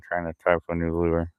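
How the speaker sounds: words slurred around a lighter; mouth full. Real, not acted. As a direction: talk with a lighter between the lips. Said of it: "I got a lighter in my mouth right now".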